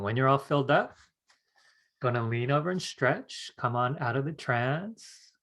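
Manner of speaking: unhurried meditation voice; guided meditation. Acted. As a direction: ease them gently out of a trance, leaving long silences.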